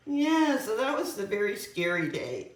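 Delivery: talking through hiccups; hiccupy speech. Real, not acted. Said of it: "I got the hiccups".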